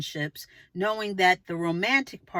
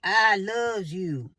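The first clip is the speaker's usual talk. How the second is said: very slow, weighty I love you; a slow, full-chested I love you; with your chest; much slower than usual. Shown as a demonstration. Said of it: "say it with your chest".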